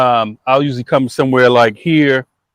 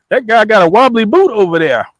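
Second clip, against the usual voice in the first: attempted Australian that lands British, pitched higher; mistaken British accent; 6 semitones higher than usual. Host mixing up countries, trying an accent that comes out British. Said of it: "Oh, that's British".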